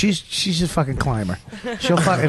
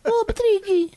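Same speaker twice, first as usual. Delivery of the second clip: very high mock-crying wail; pleading girl. Comic mimics the girl begging Patrice, high mock wail.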